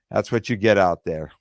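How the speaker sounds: usual speaking voice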